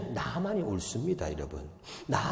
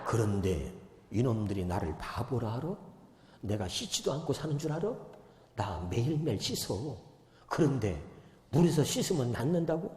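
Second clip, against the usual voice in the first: grumbling Naaman; 5 semitones lower, 7 dB quieter than usual. Retold or imitated. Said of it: "나만의 입장은 이런 겁니다".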